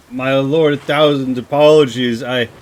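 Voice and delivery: mildly frightened, pleading vassal; a touch of panic, breaking off unfinished; scared apology. Acted. Baron begs the lord's forgiveness, mildly scared. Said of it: "He's pretty scared".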